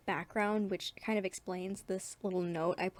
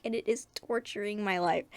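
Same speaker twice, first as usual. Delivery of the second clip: mock dramatic. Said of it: "that is very dramatic".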